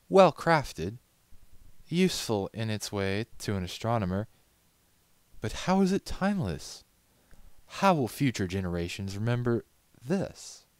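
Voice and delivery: high haughty mare voice; poised challenge, rising; Rarity. A narrator's reading. Rarity questions the gift.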